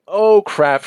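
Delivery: sudden high yelp of panic; panicked. Retold or imitated. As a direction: blurt it out in a panic. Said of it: "and it's like".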